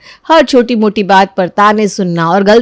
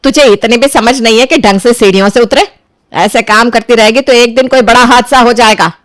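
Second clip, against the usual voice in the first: louder scolding of the injured daughter; mother scolds her hurt daughter, louder; sudden anger; 2 semitones higher, 4 dB louder than usual. Acted. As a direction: turn from sympathy to a sharp telling-off. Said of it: "फिर अचानक से उसे गुस्सा आने लगता है".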